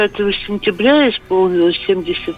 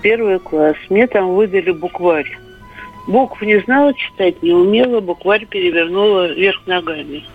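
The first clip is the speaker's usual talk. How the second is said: over a landline phone. Real, not acted. Caller on radio phone line.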